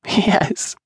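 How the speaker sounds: put-on high, breathy child's yes; little girl voice. A narrator's reading. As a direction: answer like a giggly small girl. Child answers after a giggle.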